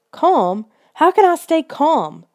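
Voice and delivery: high, rising panicked demand; shrill demand. A narrator's reading. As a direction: throw his words back at him. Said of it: "she demanded shrilly".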